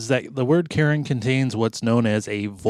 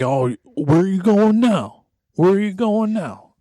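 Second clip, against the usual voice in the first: mock nagging wife; 8 semitones higher than usual. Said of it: "She's like".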